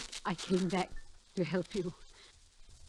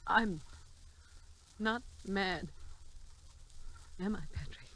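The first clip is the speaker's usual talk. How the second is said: pleading question; slower than usual. Acted. Wife begging husband to confirm she's sane, rising plea. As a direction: beg him to say she's not mad.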